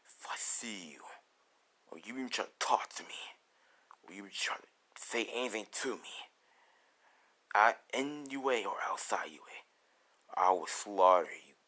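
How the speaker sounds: low, near-whispered menace; cold-blooded and quiet, pitched well down; ruthless threat. Acted. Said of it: "how ruthless Deku sounds".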